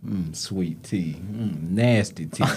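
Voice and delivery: slow, drawn-out teasing; mock savouring. Teasing a coworker over his nickname, slow mock relish. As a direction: roll the nickname round slowly as if tasting it.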